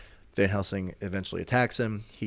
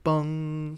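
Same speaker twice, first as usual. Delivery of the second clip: clock bong imitation; 8 semitones higher, 3 dB louder than usual. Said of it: "and it goes".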